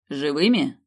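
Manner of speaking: a dry, curt asking; dry question. Acted. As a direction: ask it drily, without interest. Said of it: "поинтересовался сухо Инар".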